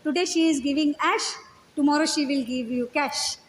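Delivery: slow, playful quote of a teacher; a light, unhurried joke in English; lightly voiced guru making a pun, slow; joking Prabhupada. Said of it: "मजाक कर रहे थे".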